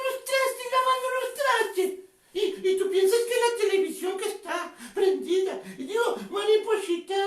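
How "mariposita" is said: sweetly. Shown as a demonstration. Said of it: "y lo hago dulce".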